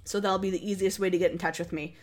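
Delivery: rushed, fast ramble; all in one breath. Real, not acted. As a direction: hurry through it in one breath. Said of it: "I'm rambling so much here".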